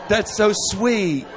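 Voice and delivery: laughing, patronising that's-so-sweet; polite brush-off. Retold or imitated. The date turning down the confession, laughing and polite. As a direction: gently dismiss them through a laugh. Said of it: "the dreaded thing of".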